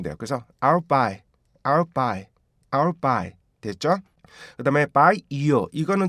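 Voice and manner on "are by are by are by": "I'll buy" with lips closed, then released into b; linked stop sound. Shown as a demonstration. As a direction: close into a p before "buy" and pop it open. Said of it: "입술을 떨어뜨려 주면서 B를".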